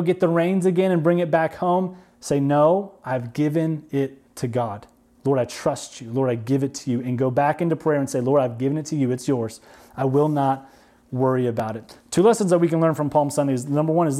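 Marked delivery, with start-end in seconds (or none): 2.4-7.0 low, soft, trusting prayer; hushed, lowered voice of trust; surrendering prayer. Acted. Models a surrendering prayer to God. 8.2-12.0 low, settled words to God; trusting prayer. Acted.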